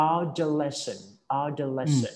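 adolescent with the weight on -les-; teacher drills adolescent, stressing the later part; stress on the ending. Shown as a demonstration. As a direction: model adolescent, leaning on the later syllable. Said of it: "ตัวหลัง".

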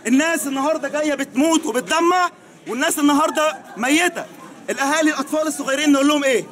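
angry crying. Real, not acted. Grieving witness denounces bombing.

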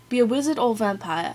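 amateur put-on British accent; attempted British accent. Shown as a demonstration. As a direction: read the question in an unconvincing British accent. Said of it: "attempt a British accent".

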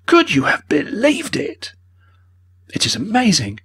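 agitated. A narrator's reading. Mortimer to his friend, agitated and indignant. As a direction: reel in disbelief, then rally. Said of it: "agitated face".

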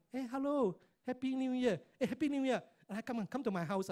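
high, loud cheerful New Year hello; festive greeting. Retold or imitated. Host welcoming a friend at Chinese New Year, loud festive greeting. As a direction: greet the guest like a glad host.

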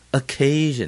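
light schwa O in Occasion, weight on CA; weak first syllable. Shown as a demonstration. Teacher correcting the reading, Occasion with light O, stressed CA. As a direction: Occasion with a barely-there 'uh', then a high, strong CA. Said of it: "前面那个O很轻".

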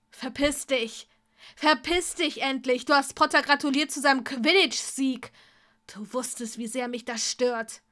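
furious, loud yelling; angry shout. Acted. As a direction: shout him out of the room. Draco yells at Tom.

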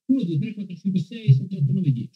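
high, quick mic check recount; mic test count again. Shown as a demonstration. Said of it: "test del microfono".

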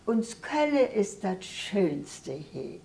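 measured Kölsch verse reading; simple spoken recital of a hometown poem; poem recitation. Real, not acted. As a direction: recite the dialect poem line by line, pausing after each. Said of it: "Magst du uns noch was vortragen".

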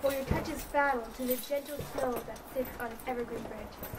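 poem recitation. Acted. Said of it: "What was your poem about?".

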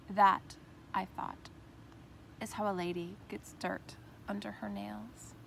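measured, deliberate poem recital with pauses between phrases; earnest spoken verse, phrase endings easing off; poetry reading. Acted. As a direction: read your poem aloud, line by line, letting each phrase stand. Recites her own poem.

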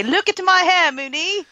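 hopeful show-off in mock British; lightly played British accent; playful British accent. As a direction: present it proudly in put-on British. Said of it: "And I will show up on this show and I'll say".

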